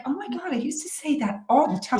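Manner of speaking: high, far-off exclamation of recognition; light up as you recognise yourself; amazed recognition. Real, not acted. Guest hearing her own old phrase, surprised.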